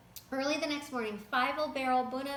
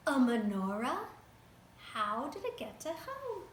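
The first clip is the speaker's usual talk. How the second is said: gasping surprise. A narrator's reading. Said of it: "Bunum gasped".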